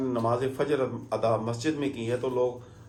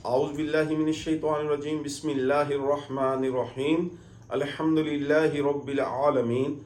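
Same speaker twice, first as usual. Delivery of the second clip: measured Quranic recitation. Shown as a demonstration. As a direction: recite it as in prayer, evenly. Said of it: "सूरह फातिहा".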